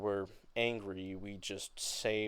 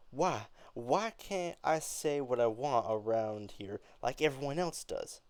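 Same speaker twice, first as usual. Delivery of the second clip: angry protest; 3 semitones higher than usual. Acted. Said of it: "angrier tone".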